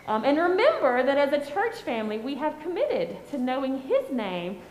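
put-on gentle, patient voice for small children; sweet patient sunday school. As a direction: talk kindly to kids in Sunday school. Children's message to kids.

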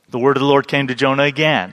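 catching his breath; winded, breathy pause. Real, not acted. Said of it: "Sorry, it's catching my breath".

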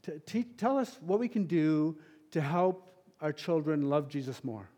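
lightly voiced friend's earnest question; Peter Willard impression. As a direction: imitate his eager ask. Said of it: "a total Peter Willard question".

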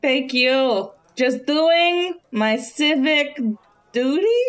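slow, halting, rising to a question; hesitant mock-innocent reply; acted uncertainty. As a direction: accept praise very unsurely. Acted reply to guard's praise.

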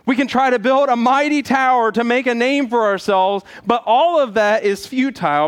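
rising, insistent preaching; building sermon. Acted. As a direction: build toward the judgment warning.

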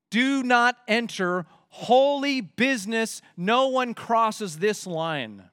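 slow, measured command; stern warning. Acted. Moses warning the people off the mountain, stern and slow. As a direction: lay down each word as a firm prohibition.

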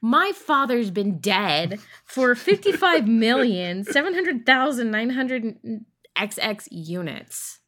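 exasperated. Acted. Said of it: "She replied with an exasperated tone".

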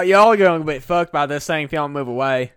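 put-on southern dude; southern accent. Ghost bellman warning folks, in a southern accent. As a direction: lay on a mock southern twang. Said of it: "he speaks like a southern dude".

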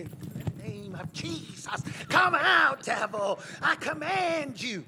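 mock exorcist command. Mocking deliverance ministers' commands.

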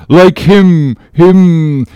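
loud, high, stuck repetition; faltering for a word. Acted. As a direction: push at the missing word. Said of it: "faltering hard for a word".

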